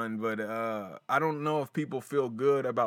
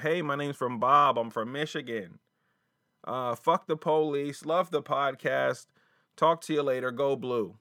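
mock caller; 3 semitones higher, 3 dB louder than usual. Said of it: "That's the kind of thing".

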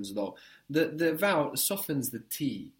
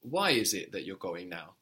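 "Why" hit at the start, the rest falling away; stress on Why; 3 semitones lower than usual. Shown as a demonstration. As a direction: put the weight on "Why". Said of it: "If you want to stress the why".

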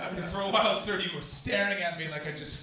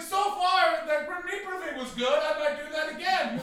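smug self-quote; 11 semitones higher, 7 dB louder than usual. Retold or imitated. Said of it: "I was like".

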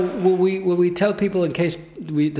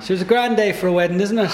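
lightly hammed-up Irish accent, higher pitched; small talk in a put-on Irish accent; 5 semitones higher than usual. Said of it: "picked up that accent".

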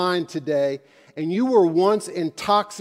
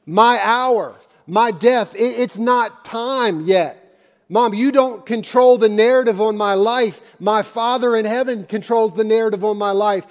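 louder, higher firm declaration; forceful words to Mom; firm, forceful Jesus; 4 semitones higher, 4 dB louder than usual. Retold or imitated. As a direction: claim the narrative, firmly. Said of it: "the hour of his death".

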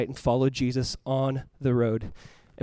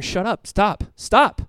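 crowd hushing him; 4 semitones higher, much slower than usual. Acted. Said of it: "The crowd is going".

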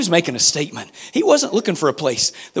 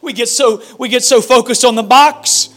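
louder and higher with each line; rising preaching climax; 5 semitones higher, 5 dB louder than usual. Real, not acted. Pastor pleading with church, building louder preaching.

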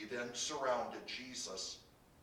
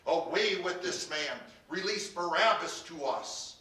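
loud, raised crowd cry; 5 semitones higher, 7 dB louder than usual. A narrator's reading. Crowd demands Barabbas from the governor, crying out. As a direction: cry it out as an angry crowd would. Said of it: "With one voice they cried out".

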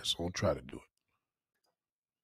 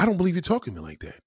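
mock offended woman; 6 semitones higher, faster than usual. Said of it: "And she's like".

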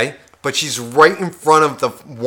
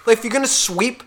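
inner rant; 6 semitones higher than usual. Retold or imitated. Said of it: "in my head".

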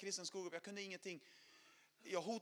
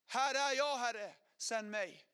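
loud ringing reply to God; proclaiming answer; called-out answer; 4 semitones higher, 6 dB louder, much slower than usual. Retold or imitated. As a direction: answer the call out loud, then slow down. Man answers God's call, quoted.

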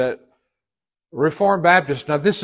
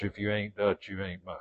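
quoted adage; 4 semitones lower, 11 dB quieter than usual. Retold or imitated. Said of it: "the old adage".

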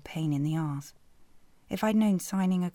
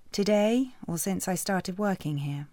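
sarcastic retort; 3 semitones higher, 3 dB louder than usual. Acted.

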